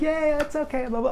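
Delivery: high, breezy mock brush-off of the apology; dismissive brush-off. Imitating his friend brushing off his apology, breezy and high. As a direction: wave it away lightly, high up. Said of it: "She was like".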